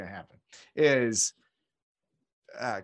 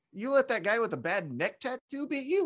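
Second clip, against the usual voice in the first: mocking Usos; 7 semitones higher than usual. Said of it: "the Usos are like".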